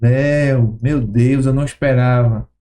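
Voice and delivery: a lightly voiced saddened Jesus, slow and low; grieved Jesus. Jesus silently grieving over the accusers, low and sorrowful.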